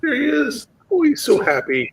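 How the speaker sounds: high startled spotting; scared horror game streamer. Real, not acted. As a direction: gasp and point him out. Spotting monster, hiding.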